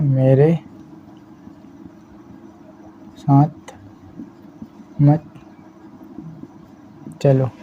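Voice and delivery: each word spaced out slowly for writing; slow dictation. Shown as a demonstration. Teacher reading aloud slowly as she writes, word by word. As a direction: dictate it word by word, pausing between words. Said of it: "मैंने लिखा है".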